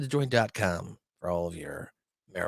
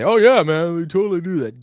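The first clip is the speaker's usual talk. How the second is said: mock eager reply; 5 semitones higher, 8 dB louder than usual. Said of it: "I don't expect you to say".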